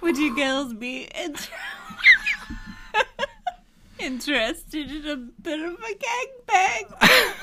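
high, laughing Australian come-on; hammed-up Australian biker, cracking up; Australian accent. Host retrying the biker's line in a laughing Australian accent. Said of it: "that's a really hard accent".

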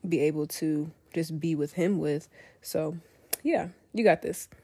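sick with a stuffy nose; sniffly. Real, not acted. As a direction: talk through a cold, sniffling. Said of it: "excuse my sniffling".

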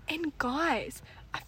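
unvoiced whisper to the audience; whispered aside. Real, not acted. Host whispering an aside to her podcast listeners. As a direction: lean in and tell them a secret.

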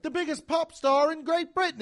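high, loud grand billing; over-excited show introduction; mock hype. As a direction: hype up the star absurdly. Acts hype of unknown British celebrity.

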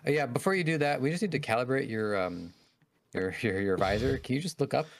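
awkward tutorial officer asking politely; game officer voice. Acted. Acting out tutorial NPC.

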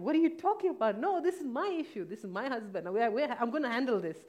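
high, loud, pleading protest; panicked daughter shouting at her mother over the call; retold screaming and crying. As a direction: yell back at mom in panic, half-sobbing. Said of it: "screaming and crying".

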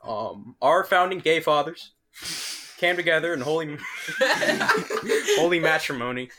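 slow parody of a famous oration; halting fake oratory, breaking for a laugh; mock presidential speech.

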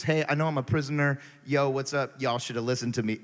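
fast, casual sarcastic Paul. Retold or imitated. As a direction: toss it off like an I-told-you-so. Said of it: "very sarcastic like".

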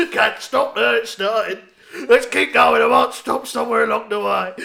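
hammed-up unstoppable blubbering; mock crying. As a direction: keep wailing as if you cannot stop. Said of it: "shame him for crying".

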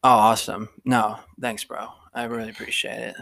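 put-on slurry, sighing drunk bro gushing; drunk frat guy. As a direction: drunk guy thanking the ride service. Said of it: "so the guys would always be like".

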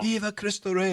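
high call to the ridge; yelled call. Retold or imitated. Calling again to the men on the ridge, a high yell. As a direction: sing it out so it echoes back. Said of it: "And I yell".

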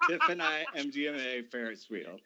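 squealing laugh. Retold or imitated. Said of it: "I was like".

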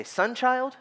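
put-on sharp, high warning call of a child's name; dad warning his misbehaving son by name; stern warning. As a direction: warn the kid he's in trouble. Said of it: "I was mad".

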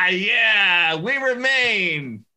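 loud laughing, high and slow. Real, not acted. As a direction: laugh it out, stretched. Laughing agreement.

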